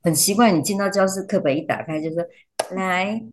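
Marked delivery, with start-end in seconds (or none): 2.8-3.2 high, drawn-out sing-song classroom welcome; put-on teacher voice for children; teacher greeting class. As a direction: switch into an eager-to-soothe teacher voice.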